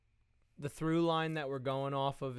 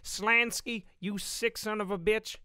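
high, loud angry hero shout; Albert yells at the villain Slansky; 10 semitones higher, 7 dB louder, slower than usual. Acted. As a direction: yell it at the villain. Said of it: "He'd be like".

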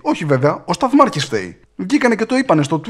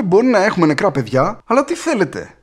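mock TV pundit; 5 semitones higher than usual. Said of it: "βγήκε στην τηλεόραση και είπε".

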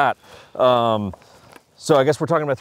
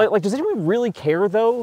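much higher voice quoting a friend; imitating a buddy; 9 semitones higher than usual. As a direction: play the curious buddy, pitched up. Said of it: "he's like".

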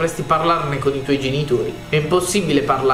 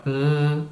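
short closed-mouth grunt. Acted. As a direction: imitate a wordless "mm" grunt. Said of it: "Grugnisce e comunica a versi".

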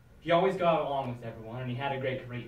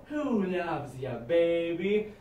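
Kojak impression; much slower than usual. Kojak catchphrase.

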